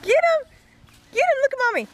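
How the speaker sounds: high loud cheering; yelling from the sidelines. Real, not acted. Cheering toddler chasing bubbles.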